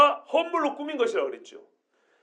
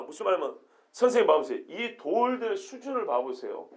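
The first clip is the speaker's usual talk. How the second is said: admiring; 4 semitones lower, 8 dB quieter than usual. Shown as a demonstration. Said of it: "어떤 뉘앙스냐면요".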